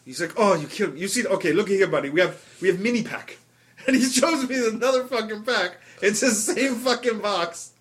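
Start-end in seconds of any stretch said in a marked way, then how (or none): 0.4-3.4 lightly mimicked Israeli accent; mild Israeli hawker impression; Israeli salesman. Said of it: "he is not native to this country".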